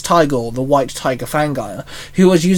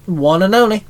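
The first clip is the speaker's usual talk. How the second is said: higher, cocky smiling reply; grinning; 4 semitones higher than usual. Acted. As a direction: say it with a grin, sure of himself. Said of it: "Shinzo grinned".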